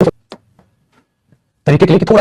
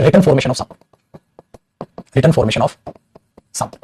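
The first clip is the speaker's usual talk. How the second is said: dictating word by word, unhurried; slow dictation; 3 semitones lower, 4 dB quieter, much slower than usual. Shown as a demonstration. Teacher dictating a definition to students, slowly. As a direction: spell it out slowly so they can write. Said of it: "आप लिख सकते हैं".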